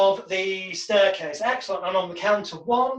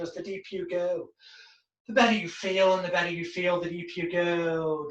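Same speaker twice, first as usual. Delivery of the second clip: hypnotic script. Shown as a demonstration. Hypnotist guiding a client down the staircase, soothing. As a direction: lull them down step by step.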